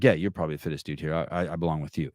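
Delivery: rushed, eager to impress the gym partner; overcompensating. Retold or imitated. Retelling how he gushed to his workout partner, overeager and quick. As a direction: blurt it out too keen, trying too hard. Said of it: "I was overcompensating".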